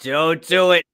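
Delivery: mildly mimicking a friend's repeated refrain; lightly imitated catchphrase, drawn into a little quote; Kevin. Co-host teasing how often the refrain comes up, light impression. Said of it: "you just hear Kevin".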